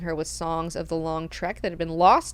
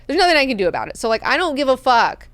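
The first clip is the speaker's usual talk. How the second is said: louder, higher, fed-up retort; exasperated venting; 5 semitones higher, 5 dB louder, faster than usual. Retold or imitated. Maneo whose daughter might die, exasperated venting. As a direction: vent it loudly, out of patience.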